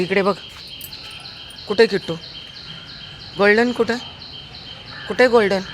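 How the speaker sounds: high coaxing pet voice. Real, not acted. Owner to her dog on the morning walk, high coaxing pet voice.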